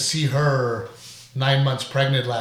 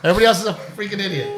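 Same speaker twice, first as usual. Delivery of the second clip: laughing rant; 8 semitones higher, 4 dB louder, much faster than usual. Real, not acted. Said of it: "laughing rant about drivers".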